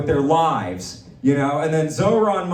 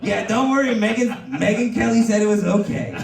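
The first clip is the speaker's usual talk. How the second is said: Trump impression; 3 semitones higher than usual. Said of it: "playing the part of the potential pedophile".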